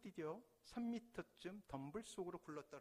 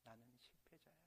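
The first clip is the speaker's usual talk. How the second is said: distant echo; 5 semitones lower, 16 dB quieter than usual. Acted. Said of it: "비난의 소리가 들릴 거예요".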